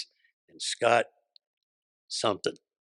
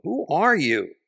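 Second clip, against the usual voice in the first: high, louder challenge with a big swoop; raised voice, swooping up then down; retold indignant surprise; 8 semitones higher, 7 dB louder, slower than usual. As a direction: imitate a baffled, affronted demand. Startled reply to yelling visitor.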